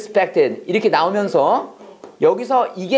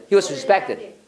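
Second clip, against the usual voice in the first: He was respected를 빨리 붙여서; 세 단어를 한 덩어리로 빠르게 읽기; much slower than usual. Shown as a demonstration. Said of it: "진짜 빨리 나와야 돼". (He was respected, 막힘없이 빠르게)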